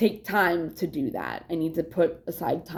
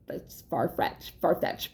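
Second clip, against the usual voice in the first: hushed whisper under her breath; whispered aside; 2 semitones lower, 5 dB quieter, slower than usual. Real, not acted. Vlogger muttering to herself about her mom's expectations, whispered. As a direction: whisper it to yourself, dismissive.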